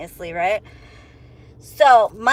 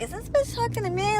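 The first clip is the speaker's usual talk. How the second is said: high, softer disbelieving aside; disbelief; 11 semitones higher, 6 dB quieter, faster than usual. Retold or imitated. She wonders if the driver means her, high disbelief. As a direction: ask yourself in shock.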